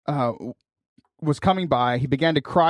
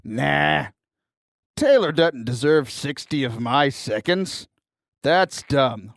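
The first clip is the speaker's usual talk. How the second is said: mock dismissive listener; 3 semitones lower, slower than usual. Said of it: "you're just like".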